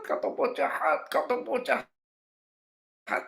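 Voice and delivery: high, thin drawn-out wail; imitated hysterics. Girl rolling on church floor accuses Kak Topo, imitated hysterical wail. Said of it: "dia histeris".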